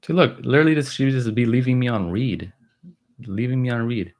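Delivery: loud, high exasperated laughing-complaint energy; excited outburst. Real, not acted. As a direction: burst out pointing at the proof. Pointing out daughter ignoring him.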